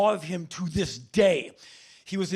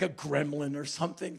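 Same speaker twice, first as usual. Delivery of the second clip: usual speaking voice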